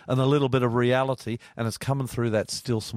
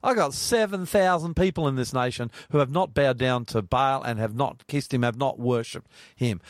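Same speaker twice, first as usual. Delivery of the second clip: a lightly raised God scolding Elijah; God asking Elijah what he's on about; voicing God; 2 semitones higher than usual. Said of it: "And he says".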